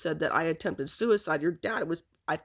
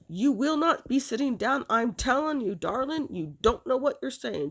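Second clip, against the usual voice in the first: higher-pitched emphatic telling-off; mock-stern warning, pitched up; retold scolding; 5 semitones higher than usual. Retelling a woman's threat to a daughter on the phone, scolding.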